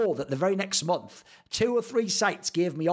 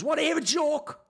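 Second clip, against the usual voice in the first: high sing-song mocking question; mocking the troll; 10 semitones higher than usual. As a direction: tease like a smug troll asking for a joke. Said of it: "This guy goes".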